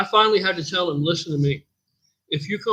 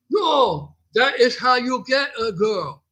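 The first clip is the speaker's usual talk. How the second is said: higher, slow insistent put-on voice; gym guy's voice; 7 semitones higher, slower than usual. Guy insisting to the gym owner, higher slow put-on voice. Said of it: "So I'm gonna do it".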